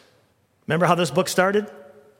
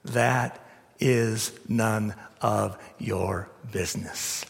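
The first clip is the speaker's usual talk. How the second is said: firm Jesus; slower than usual. Retold or imitated. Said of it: "Jesus says".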